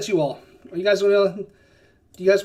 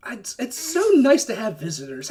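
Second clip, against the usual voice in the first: higher-pitched, excited giant voice; jovial giant; 4 semitones higher than usual. Acted. Cloud giant welcoming visitors, jovial and high. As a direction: gush like a giant welcoming guests. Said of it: "a little higher pitched than you expected".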